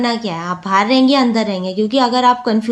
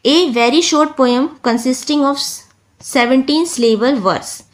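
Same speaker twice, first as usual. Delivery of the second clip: slow reading; much slower than usual. Shown as a demonstration. Reads definition slowly.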